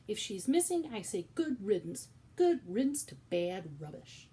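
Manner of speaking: loud, high shouted dismissal; shouting. Acted. Louise shouting at Cook, loud and dismissive. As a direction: bellow it like washing your hands. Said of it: "Louise was shouting".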